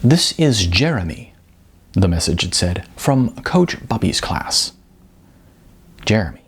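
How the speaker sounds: measured novel reading voice; story narration. A narrator's reading. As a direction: read it like an author sharing his book. Author reads his novel aloud.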